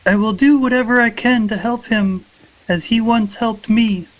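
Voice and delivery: character voice. Acted. Moonlight answers the voice.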